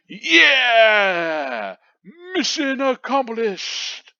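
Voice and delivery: high, loud victory shout; slow triumphant proclamation; hammed-up hero yell; triumphant cry. Triumphant shout after explosion.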